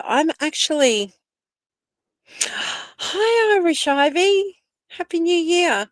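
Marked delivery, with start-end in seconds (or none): 2.3-5.9 gasp, then a high happy hello; light up at a favourite viewer; delighted surprise. Real, not acted. Greeting Irish Ivy as she joins the chat, gasping and delighted.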